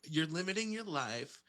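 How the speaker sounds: lightly voiced LA speak; LA life-coach talk, lightly done. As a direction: talk in mock LA self-help speak. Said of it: "go into full L A speak".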